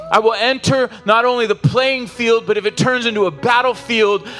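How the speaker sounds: rising preacher's cry, building with each line; preaching at full force. Acted. Pastor urging the congregation to finish the race, impassioned and building. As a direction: drive it home to the whole congregation.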